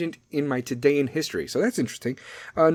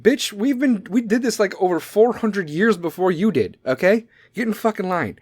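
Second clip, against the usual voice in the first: sassy retort; 4 semitones higher than usual. Acted. Acted retort from everybody in Scotland.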